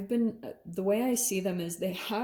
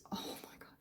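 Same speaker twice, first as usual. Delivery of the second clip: whispered aside; 15 dB quieter, faster than usual. Real, not acted. Awed aside about blackbirds.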